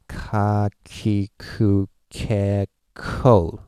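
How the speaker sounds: KA, KI, KU, KE, KO each drawn out and separate; slow, weighted ka... ki... ku... ke... ko; English-style stretched syllables. Shown as a demonstration. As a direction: stretch ka, ki, ku, ke, ko with a big final KO. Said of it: "like that, right".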